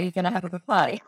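fast, laughing through the words; joking it out while giggling. Real, not acted. Joking about Australian partying.

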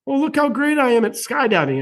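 high, smug mocking voice; mock smug boast. Host mocks a clueless skydiver bragging, high smug tone. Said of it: "jumping out of a plane saying".

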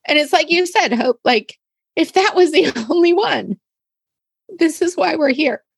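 real tears, voice breaking; emotional, tearful. Real, not acted. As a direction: voice lifted high with real emotion. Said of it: "I'm sorry for getting all emotional about it".

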